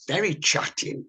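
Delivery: normal talking voice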